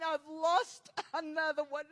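subdued grief, crumbling at the end; heartbroken Jesus. Retold or imitated. Preacher voicing the heart of Jesus, heartbroken and breaking. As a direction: voice breaking into sobs. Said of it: "I could feel his heart saying".

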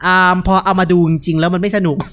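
ordinary delivery

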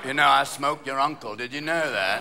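a hint of the rambling rocker; a famous rock guitarist. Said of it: "Keith will go".

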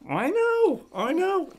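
very high cooing voice. Real, not acted. Cooing to baby Juno.

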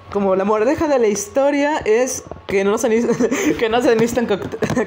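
giggling through the words; laughing while trying to finish. Real, not acted. Laughing at the story's moral.

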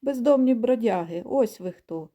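chained dog yapping insults; dog barking. Acted. Chained dog yells after the flying geese, mild bark. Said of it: "гавкає йому слід собака".

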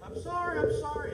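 high, loud, frantic pleading; imitated crying apology. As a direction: act out a wailing wife apologizing over and over. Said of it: "screaming, crying".

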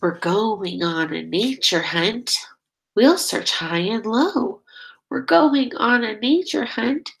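sing-song storybook reading, steady beat; reading to children. Acted. Teacher reading a nature book to her class, sing-song. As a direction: lead the chant for little listeners. Reads picture book aloud.

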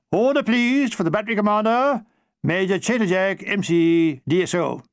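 announcing call. Acted. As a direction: call the room to order. Sergeant-major calls for order.

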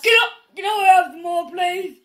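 loud, fast, tearful begging; loud, rushed, near-sobbing child plea; Oliver Twist crying. Pretend. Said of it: "Do Oliver Twist".

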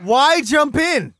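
slow, drawn-out, baffled; slow exasperated question. Real, not acted. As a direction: stretch every word in disbelief. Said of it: "repeated plea".

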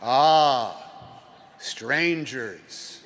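knowing sage murmur; lightly voiced old sage; wise old sage. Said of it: "said the wise man".

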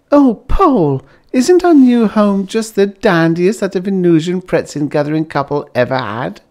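a wife thrilled with her new home; gushing Bliss. A narrator's reading. Bliss gushes about the home.

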